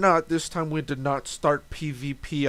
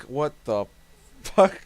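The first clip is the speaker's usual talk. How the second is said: shocked. Retold or imitated. Shocked player reaction.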